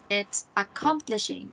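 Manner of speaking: "accomplishing" modelled carefully for repeating; model pronunciation. Shown as a demonstration. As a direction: say "accomplishing" clearly for a learner to copy. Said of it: "Can you give it one more try?".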